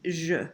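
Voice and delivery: je said with a soft zh sound. Shown as a demonstration. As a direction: give je a soft zh. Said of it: "gu versus J".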